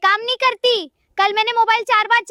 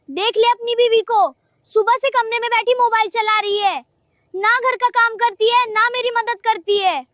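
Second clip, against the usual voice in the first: higher-pitched acted grievance; indignant complaint; 3 semitones higher than usual. Mother tells son his wife does no housework, indignant complaint. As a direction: press the complaint home, pitched up.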